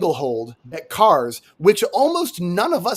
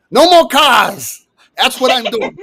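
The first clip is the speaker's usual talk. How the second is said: put-on loud, higher New York accent, first words drawn out; 7 semitones higher, 7 dB louder than usual. Candidate answering on the debate stage, loud New York accent. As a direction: belt it out in thick New Yorkese. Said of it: "You didn't have this accent two years ago".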